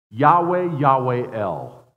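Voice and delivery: loud, slow ringing proclamation; proclaimed name. Shown as a demonstration. Preacher proclaims God's name to congregation, loudly. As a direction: call the name out like a herald. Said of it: "here's his designation".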